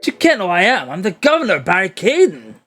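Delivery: blustering Scottish governor; Scottish accent. Acted. Governor introduces himself to the lawyer, Scottish accent. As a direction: announce yourself like a proud Scottish warden. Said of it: "how well can you do Scottish?".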